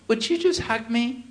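lightly hammed-up needy plea; imitated tearful plea. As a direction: plead like a man about to cry. Tearful man asks for hug.

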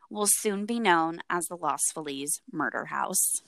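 measured true-crime storytelling; story narration. A narrator's reading. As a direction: set the scene for a chilling story.

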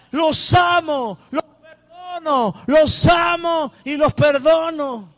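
high, slow, loud proclamation; inner cry of love. Retold or imitated. Preacher voicing Jesus forgiving his accusers, high slow shout. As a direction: cry out forgiveness with full force. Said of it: "en su interior sonaba esta palabra".

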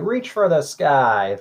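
slow, drawn-out cowboy line; Woody quote. Retold or imitated. Guest quotes his favorite Toy Story line, slow cowboy delivery. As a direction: drawl it like a toy sheriff. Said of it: "Or impression?".

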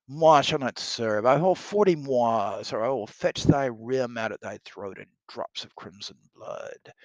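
lightly theatrical threat, forceful start; blustering soldier. Acted. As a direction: demand ransom with stagey bluster. Reads Pistol threatening to cut throat.

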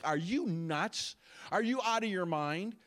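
slow, drawn-out disbelief, rising at the end; incredulous. Retold or imitated. People reacting to a huge spending program, incredulous. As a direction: imitate a disbelieving public, stretching each question.

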